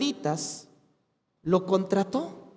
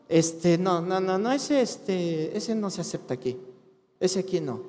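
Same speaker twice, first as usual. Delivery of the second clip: mock greedy refusal; 5 semitones lower, 6 dB quieter than usual. Mocking greedy preacher, much softer.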